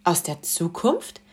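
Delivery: slow, hushed amazement; a lady leaning down, astonished; a hint of wonder, drawn out; astonished question. A narrator's reading. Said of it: "fragte die Frau".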